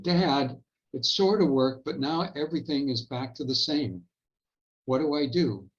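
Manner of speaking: a lightly imitated exasperated kid asking for help; frustrated. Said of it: "in frustration".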